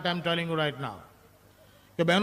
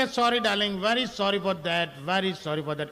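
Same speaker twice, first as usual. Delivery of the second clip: mock apology; 2 semitones higher, much slower than usual. Husband apologizes to wife.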